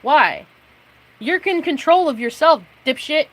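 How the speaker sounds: spitting-mad rant; angry outburst. Real, not acted. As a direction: bark it at them. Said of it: "Yes, I'm angry".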